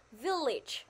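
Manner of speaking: "Village" with the first syllable stressed. Shown as a demonstration. Teacher explaining the word stress to pupils, first-syllable stress. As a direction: lean on the start of "Village". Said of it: "nhấn vào âm tiết là".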